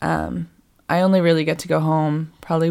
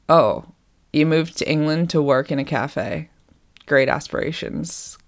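judgy customer. Retold or imitated. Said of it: "Very judgy".

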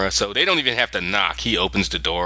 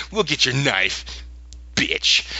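pointed retold agreement with an insult tacked on; mock defiance; 4 semitones higher, slower than usual. Lyra staring him down over the knife, defiantly. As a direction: imitate a defiant stare put into words. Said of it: "her eye said, "Bitch".

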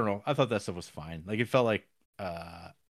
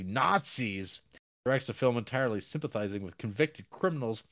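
reading a review. Acted. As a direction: read the review aloud with gusto. Reads out a review.

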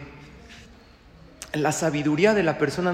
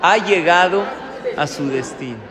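GPS announcement; 5 dB louder than usual. Pretend. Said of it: "qué te dice".

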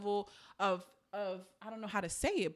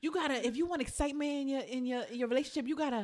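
comedian's bit; 6 semitones higher, 7 dB louder than usual. Retold or imitated. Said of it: "He was like".

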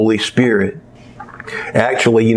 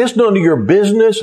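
sharp, much higher, quick; angry retort; 8 semitones higher, faster than usual. Retold or imitated. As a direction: snap it at the boy. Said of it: "and just jumped all over him".

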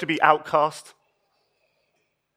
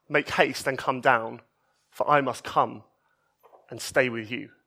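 softer, lower, tender call to come down; gentle invitation; 5 semitones lower, 6 dB quieter than usual. Retold or imitated. Jesus looking Zacchaeus in the eye, soft and tender. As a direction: speak it like a quiet kindness.

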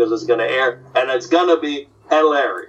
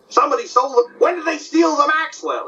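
Jack Benny voice; 12 semitones higher than usual. Retold or imitated. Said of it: "doing Benny and Rochester".

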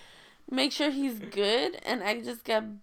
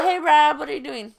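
excited; 4 semitones higher, 9 dB louder than usual. Retold or imitated. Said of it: "And I'm like".

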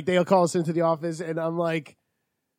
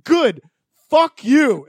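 retold taunt; 5 semitones higher, 6 dB louder, slower than usual. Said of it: "I'm like".

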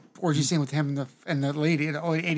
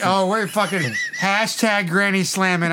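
laughing shout; 3 semitones higher, slower than usual. Real, not acted. Laughing declaration.

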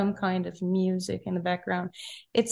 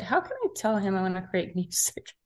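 retold worry broken up by a laugh; nervous laughing recollection. Recalling doubts before meeting the composer, nervously laughing. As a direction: laugh lightly through your own remembered doubt. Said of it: "quite nervous because".

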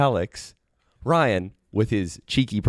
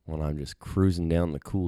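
slow, lower, dreamy mock lovesick voice; mock dreamy romantic; 3 semitones lower, 4 dB quieter than usual. Podcast host mocks a contestant's romantic talk, slow and dreamy. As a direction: drift through it like a swooning suitor.

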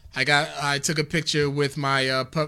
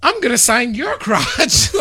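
higher, loud imitation Australian accent, laughing; 8 semitones higher, 7 dB louder than usual. Retelling Gigi's answer to the signer, mock Australian accent. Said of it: "In her Australian accent".

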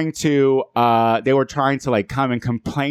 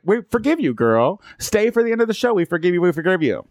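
high, sweeping "we forgive you" with a quick repeat at the end; gushing forgiveness; 5 semitones higher than usual. Retold or imitated. Host forgiving the crying girls on the mic, high and gushing. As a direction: beam it at them, all grace.

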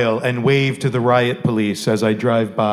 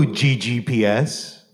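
ordinary delivery

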